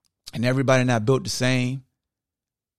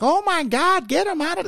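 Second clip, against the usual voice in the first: mock coach tirade. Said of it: "he just embarrassed in front of everybody".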